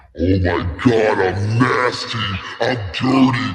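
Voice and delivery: woman's slow, low dirty-talk voice. Imitating a woman alone at home: mock dirty talk. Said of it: "you rub that one out saying".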